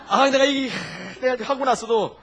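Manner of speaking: ordinary talk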